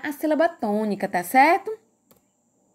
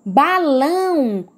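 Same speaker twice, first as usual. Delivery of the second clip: "Balão" slow, with a held LÃO; stress on final syllable; 2 semitones higher, much slower than usual. Shown as a demonstration. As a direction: stretch the last syllable of "Balão". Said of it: "Qual é a sílaba mais forte". ("Balão" devagar, com força no LÃO)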